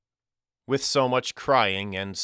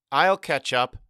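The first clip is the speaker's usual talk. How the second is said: put-on higher, raised boy's voice; shouting back; 5 semitones higher, 4 dB louder than usual. A narrator's reading. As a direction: call back to your brother as you hurry off. Boy shouts back to his brother.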